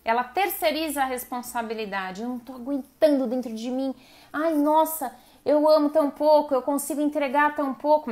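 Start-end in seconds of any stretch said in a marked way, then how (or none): 2.2-8.1 higher, louder, a hammed-up whine; mocking a partner who gives too little; mock whiny partner. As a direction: whine it like a self-pitying partner.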